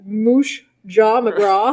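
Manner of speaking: "Moosh Jaw McGraw" slurred and slow, mushy consonants; mush-mouthed. Pretend. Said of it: "I mush mouthed us all".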